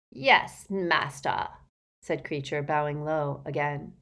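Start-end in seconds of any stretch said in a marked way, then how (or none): 0.1-1.5 lightly voiced servile elf; grudging obedience. A narrator's reading. Elf bows to his master, grudgingly obedient.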